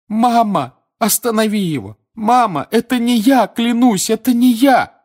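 high, loud panicked begging; desperate pleading. Acted. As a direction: plead with your mother in terror. Son begging his mother.

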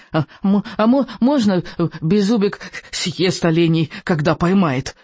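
stammering squeak; eager stutter of a tiny dragon; squeaky little dragon. Acted. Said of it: "пропищал Беззубик".

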